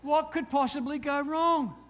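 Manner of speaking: slow, drawn-out ironic repeat. Shown as a demonstration. Preacher mocking his younger self, ironic and slow. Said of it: "repeated with ironic weight".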